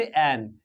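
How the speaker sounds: "एन" said as one syllable, not two letters; pronunciation demo. Shown as a demonstration. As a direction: say "एन" as a single falling syllable. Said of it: "इसको पढ़ते".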